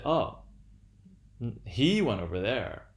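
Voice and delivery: a light, mild mock voice of another person; imitating someone else. Lecturer voicing an imagined other to show irony, lightly mocking. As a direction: quote somebody else with a faint ironic edge. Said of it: "that isn't my voice".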